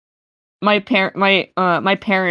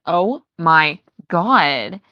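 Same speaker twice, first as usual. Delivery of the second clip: put-on valley girl accent; slower than usual. Shown as a demonstration. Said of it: "I can be like".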